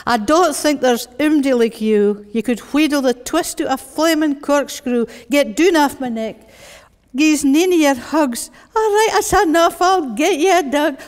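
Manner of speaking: worn-down parent in broad Glaswegian; strong Glasgow accent. Acted. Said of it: "that strong Glasgow voice".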